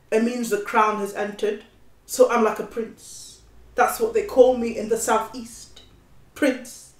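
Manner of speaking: lightly voiced proud street youth; a hint of a cocky London lad; young London client. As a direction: casually boast as the young defendant.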